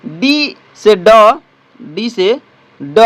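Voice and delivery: धीरे-धीरे उच्चारण; slow sounding out. Shown as a demonstration. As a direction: sound out डी से ड slowly, letter by letter. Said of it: "इनके उच्चारण कुछ इस प्रकार होगी".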